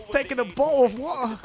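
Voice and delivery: mock British bottle of water, clipped t; British accent. Streamer's Australian attempt turning British, mock British accent. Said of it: "ends up just becoming a British accent".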